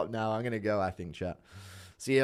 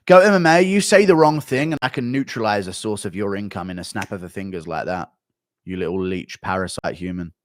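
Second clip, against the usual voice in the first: angry threat; 3 semitones lower, 9 dB louder than usual. Real, not acted. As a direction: yell the threat to scare him. Threatening chat after stream.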